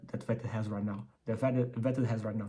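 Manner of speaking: speaking through braces. Real, not acted. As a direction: braces making words slur a bit. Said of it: "I got my braces on, that's why I cannot speak, uh, properly".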